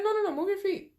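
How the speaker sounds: high mock-nurse no no no; high insistent nurse. Nurse correcting the patient, high insistent voice. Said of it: "She's like".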